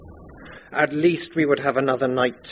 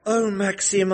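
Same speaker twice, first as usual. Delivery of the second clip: put-on much higher girlish plea with a sob; pleading bride; 11 semitones higher than usual. The bride begs her returning husband, high and crying. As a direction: beg like a desperate young bride. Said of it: "I answered".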